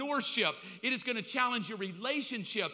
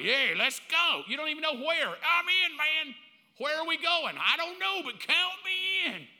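higher, louder eager shouting; excited single bro; 6 semitones higher, 6 dB louder than usual. Retold or imitated. Single bro eagerly signing up to follow, loud and high. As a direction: pump it up like a hyped buddy. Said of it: "You're like".

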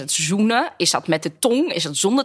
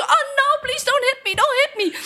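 mock pleading. Acting pleading victim in audition.

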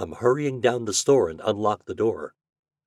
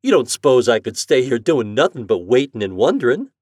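louder, raised indignant mother; insistent country mother; 4 semitones higher, 7 dB louder than usual. Acted. Mother refusing to wait at home, insistent. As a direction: insist that staying behind is impossible.

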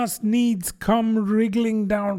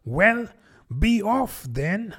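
high, slow, sulky dismissal; offended pigeon sending Alice away; 8 semitones higher, slower than usual. Acted. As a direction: shoo her off grudgingly. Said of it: "said the pigeon in a sulky tone".

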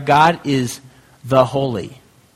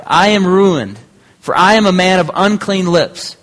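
dismay; 5 semitones higher, 4 dB louder than usual. Acted. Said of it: "I cried".

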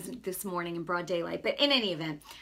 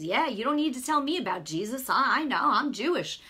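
imitated know-it-all protest, louder at the end; mock brush-off; 3 semitones higher, 5 dB louder than usual. Stranger dismissing talk about Jesus, mock indignant. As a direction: mimic a tough guy waving someone off.

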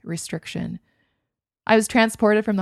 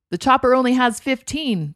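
fired back; 5 semitones higher, 5 dB louder than usual. A narrator's reading. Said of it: "the pilot fired back".

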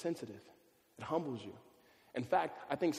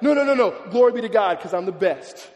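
mock boastful athlete; 5 semitones higher, 14 dB louder than usual. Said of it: "they're usually like".

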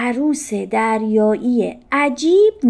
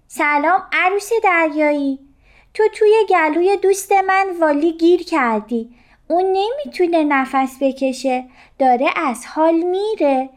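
higher, polite small fish pleading; a little fish asking nicely for help; 7 semitones higher than usual. A narrator's reading. Little fish pleading with the stuck jellyfish, higher voice.

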